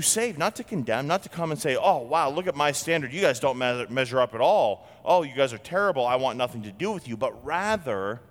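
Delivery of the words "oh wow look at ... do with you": sneering, fast mock condemnation; haughty put-down of the crowd; mock disdain. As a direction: lampoon a snobbish judge looking down. Mock judgmental God voice.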